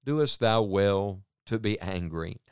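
slow, gentle fatherly question; patient father. Retold or imitated. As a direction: ask it patiently, like a father to a child. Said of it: "speaking like a very patient father".

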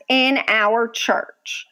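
"in our church" slowed for emphasis; slow, weighty stress on "in our church"; all-caps emphasis. Retold or imitated. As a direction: read "in our church" as if in capitals. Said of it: "she put in all caps".

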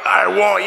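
firm, weighty push on "I won't."; emphatic. Acted. Peter's vow led for the congregation, emphatic. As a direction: declare "I won't." as a solid vow. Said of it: "this big emphatic".

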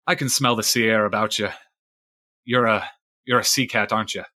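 lightly voiced weathered fisherman recounting a grudge; a hint of salty sea-dog storyteller; old sailor Fisheye.

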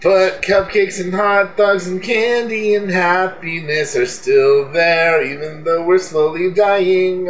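lightly hammed-up upbeat sign-off; mock cheerful outro. Asked to sing the show out, a mock-cheery outro over music. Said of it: "You can sing us out".

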